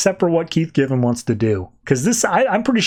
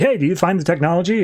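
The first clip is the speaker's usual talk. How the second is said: quicker, pushier repeat of the question; impatient Lex; 3 semitones higher, faster than usual. Retold or imitated. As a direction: rattle it off, impatient now. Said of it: "he's like".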